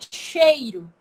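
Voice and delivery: "cheiro" with a clear "ei" glide; full diphthong. Shown as a demonstration. Teacher showing the written form, full diphthong. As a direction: sound the I in "cheiro". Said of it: "Ninguém fala cheiro".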